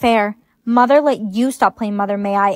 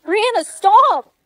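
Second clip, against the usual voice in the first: sharp call; 7 semitones higher, slower than usual. Acted. Telling a friend off.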